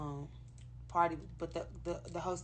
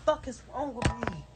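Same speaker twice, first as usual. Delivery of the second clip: tearful outburst, louder and higher; sobbing in disbelief; crying; 6 semitones higher, 5 dB louder than usual. Real, not acted. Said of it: "What happened?".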